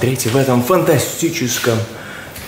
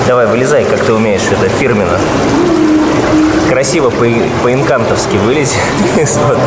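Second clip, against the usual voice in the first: calling out loud; 2 semitones higher, 5 dB louder than usual. Real, not acted. Calling to her in pool.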